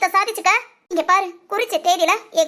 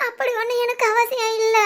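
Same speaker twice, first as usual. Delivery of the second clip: tearful, voice breaking; crying over the comatose lover. Acted. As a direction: speak through tears. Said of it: "அழாதடி".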